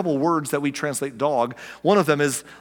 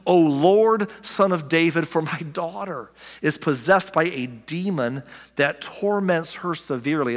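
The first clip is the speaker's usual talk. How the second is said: pleading woman; 2 semitones higher, slower than usual. Retold or imitated. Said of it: "She says".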